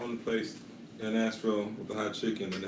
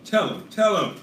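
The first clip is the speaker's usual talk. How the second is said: excited urging; 10 semitones higher, 8 dB louder than usual. Real, not acted. Urging friend to tell audience.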